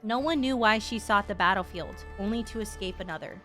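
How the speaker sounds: measured reading of solemn lore; story narration. Acted. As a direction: read the tale aloud with light gravity. Reads game text aloud.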